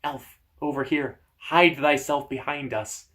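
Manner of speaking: small odd ice-creature voice; tiny crackly voice. Acted. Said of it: "a tiny crackly voice say".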